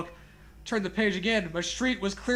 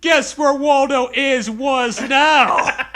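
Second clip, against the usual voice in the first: loud, slow creepy taunt; hammed-up taunt, laughing at the end; in character; 6 semitones higher, 10 dB louder, much slower than usual. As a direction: play the book's creepy final line. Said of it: "I'm saying in character".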